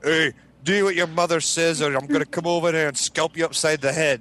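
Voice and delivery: bossy mom threat, lightly hammed; mock drill sergeant mom. Son imitating mom threatening him, mild mock sternness. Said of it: "Drill sergeant".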